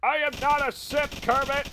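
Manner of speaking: put-on high, loud anime girl shout; indignant anime heroine yell; angry anime girl. Anime girl yelling at Kermit.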